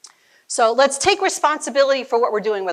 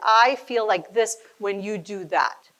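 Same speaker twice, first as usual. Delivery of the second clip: calm I-statement; 2 semitones lower, slower than usual. Shown as a demonstration. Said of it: "communicate like that".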